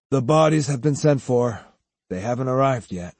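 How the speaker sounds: subdued, sinking answer; dispirited. Acted. Beaten student answering about the bodies, dispirited. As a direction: answer with the spirit gone out of you. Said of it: "answered dispiritedly".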